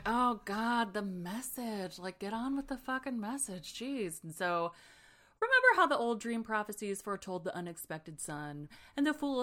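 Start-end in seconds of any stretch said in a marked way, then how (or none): 0.1-4.2 mock impatience. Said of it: "Fitz is just like".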